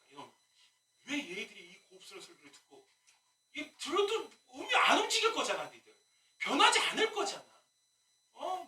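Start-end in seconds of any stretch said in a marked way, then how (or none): 3.5-8.6 laughing exasperation. Real, not acted.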